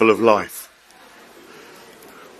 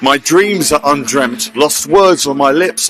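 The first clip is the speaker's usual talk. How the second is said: spoken-word poem, a little raised and lively; poem recitation. Acted. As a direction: perform it as a spoken-word piece on stage. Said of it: "A poem".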